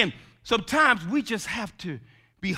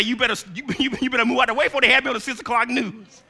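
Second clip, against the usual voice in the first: laughing mock threat; 5 semitones higher, 5 dB louder, much faster than usual. Parent retorting to demanding child.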